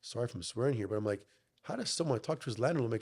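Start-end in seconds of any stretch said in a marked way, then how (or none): 1.6-2.8 higher-pitched, baffled question; retold disbelief. Son recalling his question to the landlord, in disbelief.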